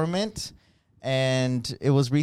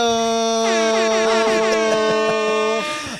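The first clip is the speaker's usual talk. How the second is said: high hearty laugh; loud laughter; 8 semitones higher, 8 dB louder than usual. Real, not acted. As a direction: crack up loudly. Laughing at own joke.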